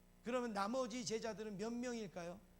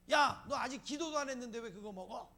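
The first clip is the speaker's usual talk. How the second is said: loud, higher-pitched mock telling-off; acted annoyed scolding; 4 semitones higher, 8 dB louder than usual. Diner scolding someone for eating before the prayer, acted annoyance. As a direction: snap at a table-mate who ate first. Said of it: "화가 나니까".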